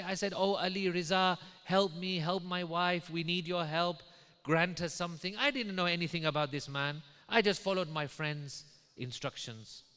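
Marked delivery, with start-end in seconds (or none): 0.0-5.4 raised, steady plea in a preacher's voice; retold pleading prayer. Pilot prays to the Imam for his wife, pleading. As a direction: plead insistently, pitched up.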